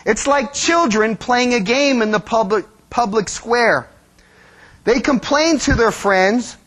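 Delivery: measured, earnest reading voice; scripture reading. Acted. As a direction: read the verse with weight. Reads scripture.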